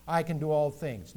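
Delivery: "I" hit firmly at the front; overemphasized I. Shown as a demonstration. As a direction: put the weight on "I", then let the rest follow. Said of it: "don't overemphasize the "I".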